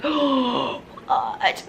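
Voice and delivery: big gasping whisper of wonder; whispered amazement. Retold or imitated. Children hearing the secret, astonished whisper. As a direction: gasp it, breathy and amazed.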